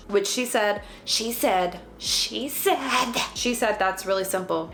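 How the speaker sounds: lisping through a dental flipper. Real, not acted. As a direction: speak around a dental plate. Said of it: "I have my flipper in".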